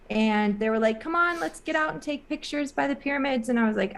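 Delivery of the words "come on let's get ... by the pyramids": higher-pitched, imitated urging; eager coaxing. Group urges her out for pictures, eager coaxing. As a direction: coax a tired friend along.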